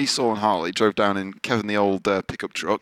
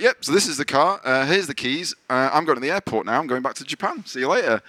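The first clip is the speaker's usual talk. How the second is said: imitating James; 6 semitones higher than usual. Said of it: "he's like".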